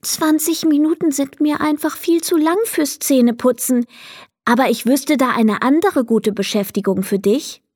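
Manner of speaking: put-on a girl kindly turning down the goblin; polite little girl. Leni's voice. (höfliches Mädchen, höhere Stimme)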